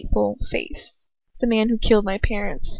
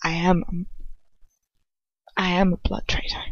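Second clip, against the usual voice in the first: mutter; 5 dB quieter than usual. A narrator's reading. Lucius confessing to her in a hushed mutter. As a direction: mutter it under the breath. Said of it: "he mutters".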